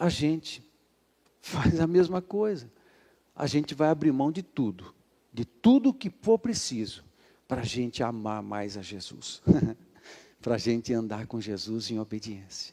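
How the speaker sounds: hushed, tranquil, soft, calm, gentle voice. Addressing listeners during a message, speaking softly and calmly. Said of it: "Eu estou falando baixinho assim, tranquilinho".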